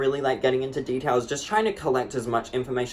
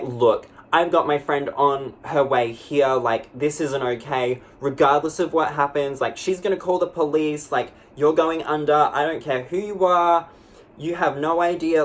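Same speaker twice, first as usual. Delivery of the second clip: firm threat. Retold or imitated. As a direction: warn him off hard and steady. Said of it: "but I'm like".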